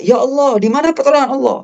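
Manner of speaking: high-pitched mock outcry to God; acted cry for help, pitched high; imitated desperate cry. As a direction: plead upward like someone crying out, without really shouting. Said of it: "orang berteriak".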